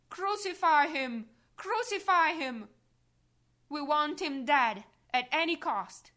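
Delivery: loud, high furious shout; crowd's cry. Acted. The mob demanding crucifixion, furious high shouting. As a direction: scream for his death. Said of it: "I hear the cry of all".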